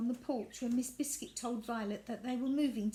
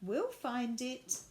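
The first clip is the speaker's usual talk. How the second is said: smiling reassurance; 4 semitones higher, 3 dB louder, slower than usual. Acted. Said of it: "Miss Biscuit smiled".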